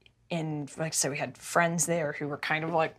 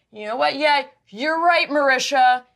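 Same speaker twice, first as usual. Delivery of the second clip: snapping; 7 semitones higher, 7 dB louder than usual. Retold or imitated. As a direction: bite back with mocking fury. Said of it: "he snapped and he went".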